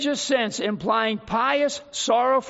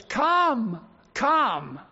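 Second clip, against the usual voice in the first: tender invitation. Acted. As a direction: invite gently, fading.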